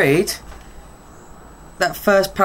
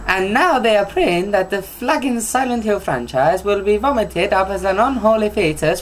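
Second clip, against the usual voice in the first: mock Italian accent. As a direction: drag out a jokey Italian accent. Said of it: "my version of Italian".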